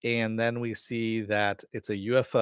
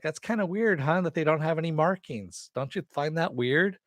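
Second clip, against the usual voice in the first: higher, innocently probing question; prodding Mimi; 6 semitones higher than usual. Retold or imitated. Mimi nudging the secretary about hangars, higher and innocent. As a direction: play dumb and nudge for an answer.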